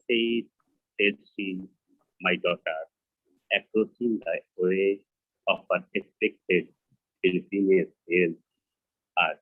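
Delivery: slow, halting verse reading; deliberate poetry reading, line by line; poem recitation. Acted. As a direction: recite slowly in short phrases with long pauses. Poet reads English version.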